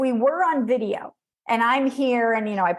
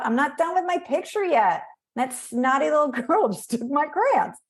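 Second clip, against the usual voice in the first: lightly higher whiny kid voice, a mock pout; upset little boy; 4 semitones higher than usual. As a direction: voice a hurt little boy, half-hearted. Voicing upset little boy Johnny.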